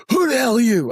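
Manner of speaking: imitated grumpy man just woken; high-pitched mock indignation; mock irate. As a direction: demand it like you were rudely woken. Man woken at three in morning.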